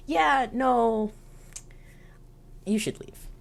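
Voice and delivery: put-on uneasy girl. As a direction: wave him off awkwardly. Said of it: "she's kinda like".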